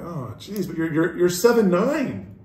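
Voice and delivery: high mock dad voice, building in pitch; pleading dad. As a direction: plead with your son, stretching the ending. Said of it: "I'm like".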